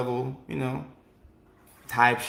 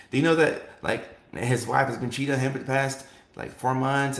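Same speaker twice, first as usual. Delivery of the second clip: gossiping partner. Retold or imitated. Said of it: "pillow talking".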